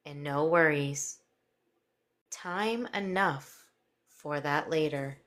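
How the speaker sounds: slow soothing hypnotist voice; hypnotic voice. Acted. Hypnosis induction continues.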